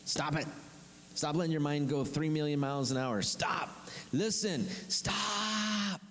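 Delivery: preacher acting out Moses ordering them to stop; commanding Moses. Moses telling panicked people to stand still, insistent command. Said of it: "Moses responds to him and he says".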